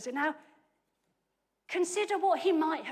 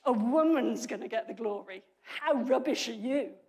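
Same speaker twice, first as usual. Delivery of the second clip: louder, scornful taunt; mocking put-down; 3 dB louder than usual. Preacher voicing the harsh translation as a scornful taunt to Barak. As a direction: sneer at him for not being man enough. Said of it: "it sounds like saying".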